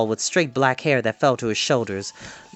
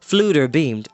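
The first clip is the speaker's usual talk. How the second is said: usual speaking voice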